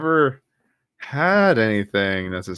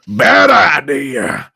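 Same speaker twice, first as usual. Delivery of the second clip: mock warning; 2 semitones higher, 7 dB louder, much slower than usual. Retelling being pushed at concert.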